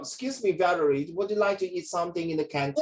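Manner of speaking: polite, measured imitation of international-student English; formal international student. International student inviting Valerie to canteen, imitated formal accent. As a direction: put on careful formal English, lightly lilting. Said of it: "But the international student talk".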